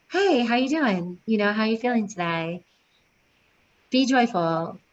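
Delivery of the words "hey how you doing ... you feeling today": soft tone. Shown as a demonstration. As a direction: greet a pregnant student calmly and kindly. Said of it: "Use your soft tone".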